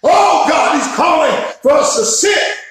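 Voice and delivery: rising, shouted sermon cadence with hard stresses; full-force preaching. Real, not acted. Pastor stirring up his congregation, full-force preaching. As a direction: preach it full out and lift the room. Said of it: "Man, I feel myself preaching".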